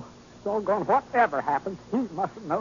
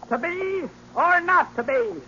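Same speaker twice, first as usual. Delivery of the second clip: slow, lofty, higher Shakespearean declaiming; hammy orator; 8 semitones higher, 3 dB louder, slower than usual. Acted. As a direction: ham it up like a stage tragedian. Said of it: "orating like Demosthenes".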